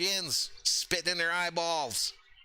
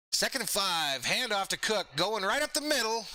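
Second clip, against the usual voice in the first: play-by-play call. Acted. Streamer calls the Cook run live, announcer style. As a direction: build up through the run like a TV announcer.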